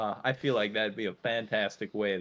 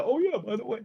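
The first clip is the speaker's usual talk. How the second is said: mock cue line; 13 semitones higher, faster than usual. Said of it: "I was hoping you'd use that as a segue".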